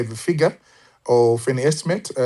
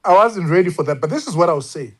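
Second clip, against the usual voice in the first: laughing; 5 semitones higher, faster than usual. Real, not acted. Laughs off the surprise question.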